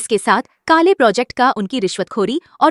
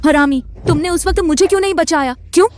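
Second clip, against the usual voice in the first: raised, higher-pitched reproach; angry accusation; 5 semitones higher, faster than usual. Acted. Victim blaming someone for not saving them, angry. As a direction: demand an answer in anger.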